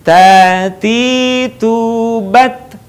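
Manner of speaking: long vowels in "Tati tubat", a puff of air on the t; airy T. Shown as a demonstration. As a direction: chant "Tati tubat" slowly, letting air flow on each T. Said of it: "ada udara yang mengalir ketika melafalkan". ("Tati tubat" panjang, huruf t dialiri napas)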